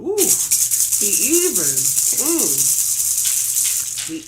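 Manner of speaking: loud, slow, high woo; loud, drawn-out preaching cry; ecstatic shout. Real, not acted. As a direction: let the spirit carry the shout.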